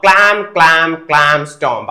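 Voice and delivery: slow, heavy-beat clam, clam, stomp; imitated marching. Shown as a demonstration. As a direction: sound out soldiers' stomping feet. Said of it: "soldiers ഇങ്ങനെ മാർച്ച് ചെയ്ത് പോകുന്നുണ്ട്". (പട്ടാള മാർച്ചിന്റെ ശബ്ദാനുകരണം)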